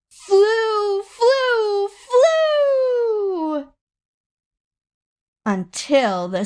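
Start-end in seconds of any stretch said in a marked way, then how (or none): 0.1-3.7 building higher and louder with each flew; soaring excitement. A narrator's reading. Chick's plane climbing, narrator soaring high and loud. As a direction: lift each word higher like taking off.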